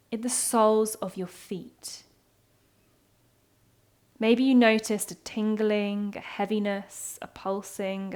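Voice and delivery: unhurried body-scan guidance with long pauses; calm movement-meditation instructor; guided meditation. Acted. Leads a moving body scan.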